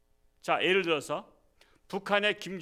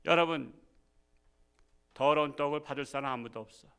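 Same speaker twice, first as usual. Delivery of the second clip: ordinary delivery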